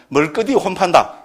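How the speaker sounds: Gyeongsang dialect phrase; homely Gyeongsang regional wording. Shown as a demonstration. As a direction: quote the saying in Gyeongsang dialect. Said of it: "경상도 말로 뭐가 됩니까".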